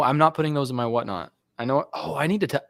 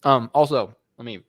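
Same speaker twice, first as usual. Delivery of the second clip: talking while chewing; words round a bite of food; mouth full. Real, not acted. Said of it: "not talk with my mouth full".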